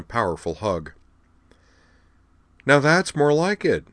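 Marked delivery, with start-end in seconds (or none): 2.6-3.9 slow, higher-pitched smug satisfaction. A narrator's reading. Wakaba returning her friend's hug, smug. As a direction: draw it out smugly. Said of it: "said Wakaba smugly".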